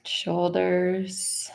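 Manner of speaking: slow body-scan guidance with long pauses; guided meditation. Acted. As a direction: lead them unhurriedly through the body, phrase by phrase.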